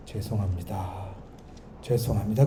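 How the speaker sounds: soft, low, heartfelt "죄송합니다"; mean every word of "죄송합니다", quietly; sincere apology. Shown as a demonstration. Preacher showing a truly sorry apology, soft and sincere. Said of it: "그러면 좋은데".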